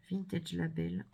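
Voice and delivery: English label read with a French accent. Real, not acted. Crafter reading English labels off papers, French accent. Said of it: "je m'excuse pour mon accent anglais".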